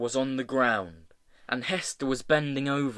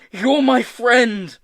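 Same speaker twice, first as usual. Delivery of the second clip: loud, high, slow insistence; drawn-out emphatic yell; shouted; 9 semitones higher, 10 dB louder, slower than usual. A narrator's reading. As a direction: shout it so it gets through. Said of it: "he shouted".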